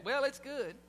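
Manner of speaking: lukewarm "Well, it's good"; grudging well. Retold or imitated. Husband lukewarmly judges wife's dinner, unimpressed. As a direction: let "Well" hang, unimpressed. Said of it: "he would do that".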